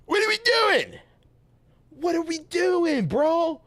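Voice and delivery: mock-shocked high voice; high incredulous squeak. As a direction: squeak it out in disbelief. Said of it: "I'm like".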